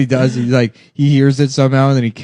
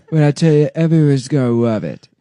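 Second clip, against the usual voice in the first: lightly put-on, slurred impression voice; Donald Trump. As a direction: loose mock-politician voice. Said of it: "let me figure out the voice".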